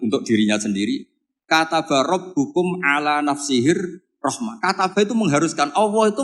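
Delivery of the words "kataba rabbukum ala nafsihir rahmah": slow, measured Quran recitation. Acted. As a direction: chant the verse out slowly.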